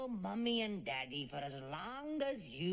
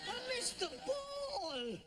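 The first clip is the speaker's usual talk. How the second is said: high shout. Acted. Shout after the miss.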